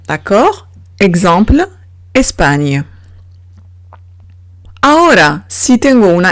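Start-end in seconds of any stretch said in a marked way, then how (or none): 2.1-2.9 "España" in French with a hissed s, ñ ending; normal S. Shown as a demonstration. Teacher giving an example of S before consonant, plain s. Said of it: "se pronuncia S".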